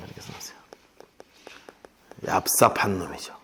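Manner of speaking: hushed conspiratorial whisper; whispered aside calling Ahab sly. Shown as a demonstration. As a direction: whisper it like a secret to the room. Aside to congregation, unvoiced.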